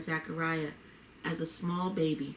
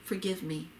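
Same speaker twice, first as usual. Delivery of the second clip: begging. Acted. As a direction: let the second forgive me drop away. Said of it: "he begged".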